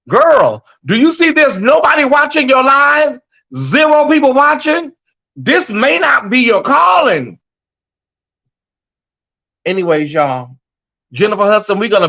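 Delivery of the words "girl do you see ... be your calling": mock tough love. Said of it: "I try to say it through these messages".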